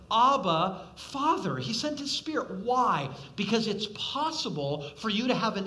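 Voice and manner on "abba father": cry out. Acted. Quoting the spirit's cry.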